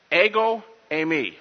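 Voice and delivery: Ego eimi said as Greek, falling on Ego; Greek spoken. Shown as a demonstration. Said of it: "What does that mean?".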